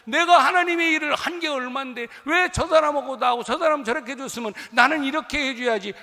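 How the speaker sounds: loud, high, aggrieved believer whining at God; a longtime believer angrily complaining to God; indignant complaint. Retold or imitated. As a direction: protest the unfairness at full volume. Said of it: "불평, 불만 늘어놓을 수가 있어요".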